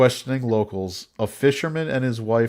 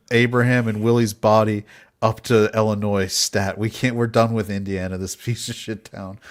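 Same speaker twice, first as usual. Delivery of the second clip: bossy shout; 4 dB louder than usual. Retold or imitated. Mary Todd demanding the body.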